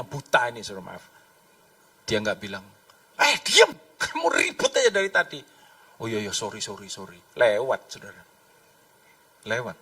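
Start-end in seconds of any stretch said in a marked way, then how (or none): 3.2-5.4 raised-pitch acted telling-off; scolding. Bystander silences noisy blind man, sharp acted scolding. 6.0-7.2 low, hushed backing down; meek apology. Acted. Blind man hushed by crowd, meek quiet apology. Meek reply to being scolded.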